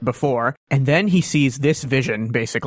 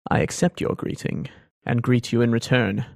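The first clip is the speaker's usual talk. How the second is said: strained formal reply; 2 semitones lower, 3 dB quieter than usual. Acted. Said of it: "with great effort".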